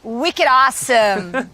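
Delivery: slow, exaggerated Boston accent; thick Boston accent. Shown as a demonstration. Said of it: "in the thickest Boston accent that you can do".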